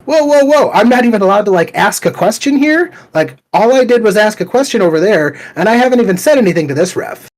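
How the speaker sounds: high, loud disbelieving protest; a father protesting to the table worker, loud and incredulous; stunned protest. Retold or imitated. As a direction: throw up your hands in disbelief. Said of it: "And I'm like".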